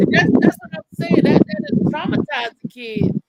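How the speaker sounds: high and loud outrage; outraged. Real, not acted. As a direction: squeal with disbelief. Outraged about laughing parent.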